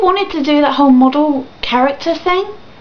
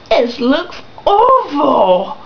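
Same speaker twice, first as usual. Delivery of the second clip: dismayed; much slower than usual. Real, not acted. Ranting about the game's look.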